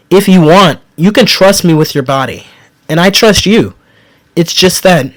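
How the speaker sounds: heartfelt, voice catching with feeling; pleading tenderly with his partner, voice thick; thick with emotion. Acted. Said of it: "my voice growing thick with emotion".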